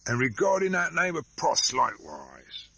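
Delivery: rough hoarse commoner; blunt, hoarse and pushy; Cruncher's voice. Acted.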